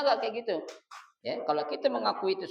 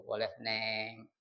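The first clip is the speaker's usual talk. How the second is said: pet-name address; 5 semitones lower, 6 dB quieter, much slower than usual. Shown as a demonstration. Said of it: "nama kesayangannya".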